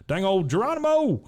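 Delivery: high, hollered leap into the water; mock jumping yell. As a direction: imitate a gleeful battle cry on the jump. Character leaps into the water.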